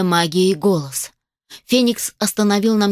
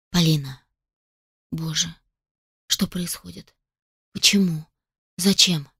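terrified; 3 semitones lower, 5 dB quieter than usual. A narrator's reading. Heroine terrified amid the carnage.

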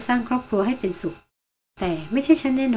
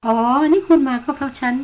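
sudden high, louder exclamation of surprise; startled and amused, pitched up sharply; surprised high exclamation; 5 semitones higher, 4 dB louder than usual. Acted. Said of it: "หล่อนอุทานตวัดเสียงสูง".

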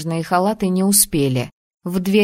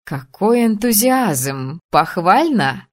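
slow, dry mocking praise; wry smirk; slower than usual. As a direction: drawl it with a smirk. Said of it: "хмыкнула леди Вероника".

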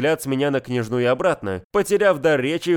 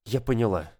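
quiet, lower and emotionless; impassive; 4 semitones lower, 5 dB quieter than usual. Acted. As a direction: swallow the hurt, say it flat and soft. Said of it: "бесстрастно ответила Яникеева".

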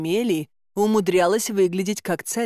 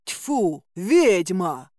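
shout from the crowd; much slower than usual. Acted. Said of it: "выкрикнул кто-то из толпы".

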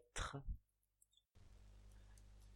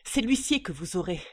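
loud, rasping threat; hoarse threat; 7 dB louder than usual. Acted. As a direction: growl out the bailiff threat. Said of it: "la voix rauque".

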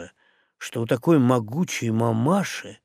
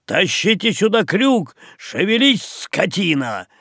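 angry yell; 5 semitones higher than usual. Acted. Boatswain yelling at sailors.

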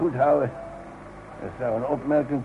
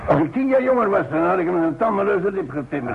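put-on louder, higher, bristling old man; fuming outburst; 5 semitones higher, 4 dB louder than usual. Old man fumes about the cocky young worker, loud and high. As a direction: vent the anger now he is gone.

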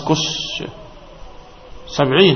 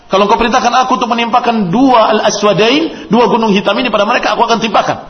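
angel's offer; 7 semitones higher, 4 dB louder than usual. Retold or imitated. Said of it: "ketika ditawarkan".

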